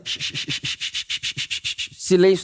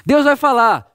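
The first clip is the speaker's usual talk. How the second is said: louder, higher announcement; loud herald's cry; proclaimed announcement; 4 semitones higher, 4 dB louder than usual. Acted. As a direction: call out to the whole crowd that God will speak. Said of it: "Shh, shh, shh, atenção".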